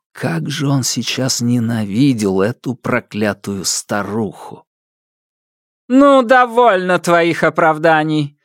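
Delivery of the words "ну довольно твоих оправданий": high, sharp imperious cutoff; curt cutoff. A narrator's reading. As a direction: snap him silent. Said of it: "оборвала сына императрицы".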